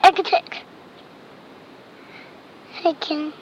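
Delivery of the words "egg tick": ticking like a clock. Retold or imitated. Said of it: "He can sound like a clock".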